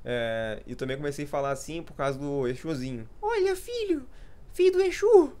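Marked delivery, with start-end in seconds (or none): 3.2-5.3 much higher squeak, louder at the end; squeaky little voice. Retold or imitated. Brothers joking around with the squeaky catchphrase. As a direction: yelp it out in a tiny high voice. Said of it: "A gente falava assim".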